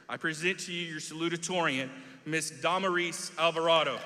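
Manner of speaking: ringing announcer-style introduction; grand introduction. Real, not acted. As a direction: call her up to the stage with pride. Teacher introduces the salutatorian.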